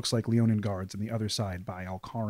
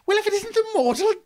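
loud booming greeting; 6 dB louder than usual. Acted. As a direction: cut through a silent funeral with a grand greeting. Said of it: "you hear a loud voice come out and say".

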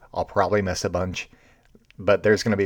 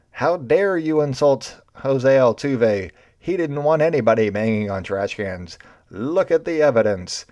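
mock fired-up; 5 semitones higher, 3 dB louder than usual. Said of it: "got all fired up ... and was like".

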